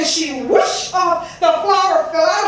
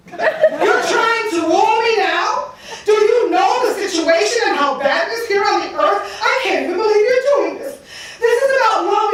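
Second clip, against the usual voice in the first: mildly exasperated, higher pitch; irritated; 4 semitones higher than usual. Acted. Goddess to the god trying to woo her, mildly irritated. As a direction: scold him with a touch of irritation. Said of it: "she was just absolutely irritated at this".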